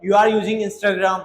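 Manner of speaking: every word slow and separate; slow, careful teacher read; slow model sentence. Shown as a demonstration. Teacher modelling the English sentence slowly. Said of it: "भाई, तुम Instagram चला रहे हो".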